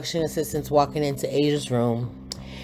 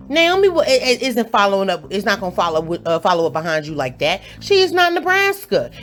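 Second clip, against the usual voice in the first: heated rant; 3 semitones higher than usual. Real, not acted. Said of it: "get back on ten".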